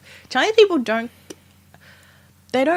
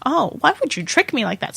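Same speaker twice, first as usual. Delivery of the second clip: reproachful mother; 4 semitones higher than usual. Retold or imitated. Imitating mother upset at trick.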